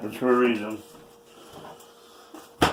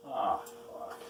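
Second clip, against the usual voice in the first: softer breathy curse; whispered curse; 15 dB quieter than usual. Real, not acted. Cook cursing under his breath at the pan.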